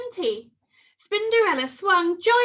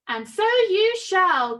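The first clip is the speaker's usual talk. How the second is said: slow, louder pronouncement; slow magical voice; 6 semitones higher, 6 dB louder, slower than usual. A narrator's reading. The hairy godmother granting the wish again, slow and grand. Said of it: "came a voice".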